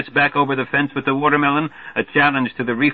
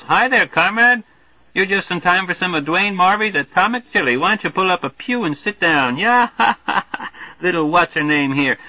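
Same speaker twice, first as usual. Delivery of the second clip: put-on high, loud, hearty good-ol'-boy; brash Major Marvey; 8 semitones higher, 3 dB louder than usual. Marvey hollering a greeting to the newcomer, brash and hearty. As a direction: boom the welcome like a glad-hander.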